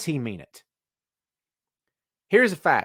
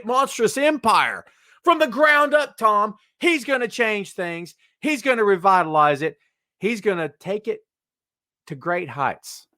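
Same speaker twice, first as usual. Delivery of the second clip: mock grand hype; 6 semitones higher than usual. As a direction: build up the hammed-up hopeful hype. Parodies fans' grand hopes.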